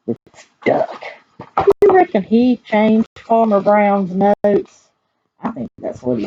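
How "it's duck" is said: whispered reveal. Acted. Reader whispers the culprit to the children. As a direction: let them in on the secret in a whisper.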